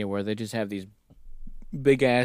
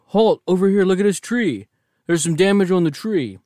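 excited calling out; 7 semitones higher, 5 dB louder than usual. Retold or imitated.

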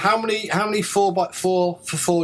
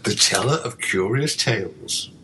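a lower, hushed radio-announcer read; 4 semitones lower than usual. Shown as a demonstration. Opening a ghost story radio show, in a low announcer voice. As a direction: introduce it like a spooky old radio host. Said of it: "the announcer should have a low, quiet voice. Like that".

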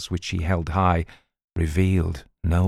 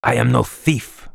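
furious protest against the accusation; violent protest; 4 semitones higher than usual. Acted. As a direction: hurl the denial back at him. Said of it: "protested violently".

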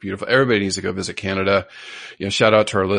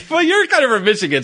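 laughing while teasing, higher; laughing tease; 13 semitones higher, 5 dB louder, faster than usual. Real, not acted. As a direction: tease her through a laugh.

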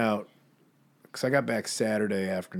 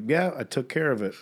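cat's voice; 5 semitones higher than usual. Retold or imitated. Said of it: "but was like".

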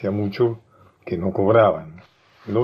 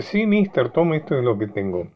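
mock fright; 4 semitones higher than usual. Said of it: "fingiendo estar muy asustado".

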